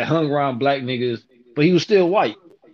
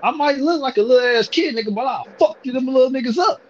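retold angry rant; 8 semitones higher than usual. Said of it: "I'm like".

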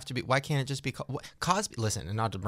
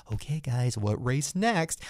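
mock executive; slower than usual. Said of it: "conference room going".

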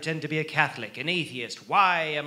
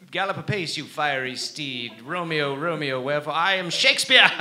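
theatrical recitation; 2 semitones higher, 5 dB louder than usual. Acted.

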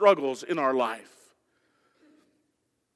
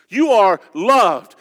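louder, slow, each word weighted; emphatic proclamation; 7 dB louder, slower than usual. Real, not acted. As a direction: land it on the whole room. Pastor proclaims to congregation.

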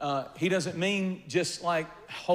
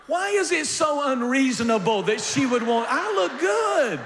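high, loud mock-indignant plea; indignant protest; 9 semitones higher, 4 dB louder than usual. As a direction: protest much higher and louder, hurt pride. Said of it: "And I'm like".

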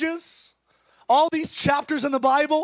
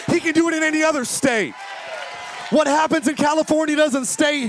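preaching at full force. Acted. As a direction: hammer it home to the congregation. Preacher shouting to congregation.

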